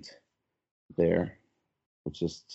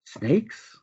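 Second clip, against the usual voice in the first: sharply higher, indignant "Snakes?"; startled woman; 12 semitones higher than usual. Acted. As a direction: echo the word back in shock. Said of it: "the woman says".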